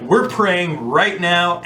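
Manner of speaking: slow, emphatic declaration; focused intensity. Acted. Speaker showing how to focus for prayer, intense. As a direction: draw it out with firm intent. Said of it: "get that intensity and be like".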